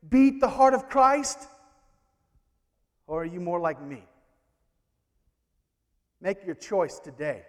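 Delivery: ordinary talk, nothing marked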